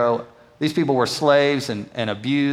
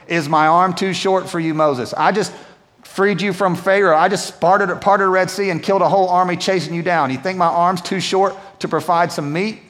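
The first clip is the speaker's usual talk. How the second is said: God's challenge; 4 semitones higher than usual. Acted. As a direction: thunder it back at Moses as the Lord. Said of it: "The Lord answered Moses".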